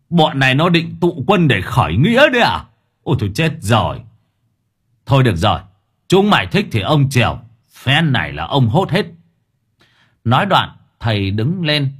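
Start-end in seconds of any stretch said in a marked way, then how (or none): 0.1-9.0 a lightly voiced old exorcist, startled then swaggering; mock alarm turning to bravado; alarmed then bold exorcist. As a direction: exorcist boasts he will round up every ghost. Exorcist reacts to 200 ghosts.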